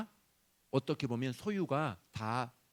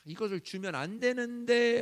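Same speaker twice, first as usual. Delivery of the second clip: 마지못한 한숨; 8 semitones higher, 5 dB louder than usual. Retold or imitated. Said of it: "하면서도 주실 때가 있어요".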